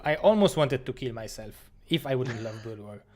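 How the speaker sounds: usual speaking voice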